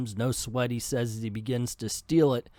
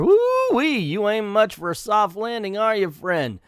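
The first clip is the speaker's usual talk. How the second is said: hammed-up cowboy; 8 semitones higher than usual. Voicing Ben, the cowboy pupil.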